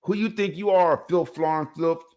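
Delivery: mock cocky son mouthing off; cocky comeback. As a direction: sass the father as if untouchable. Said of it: "feeling himself".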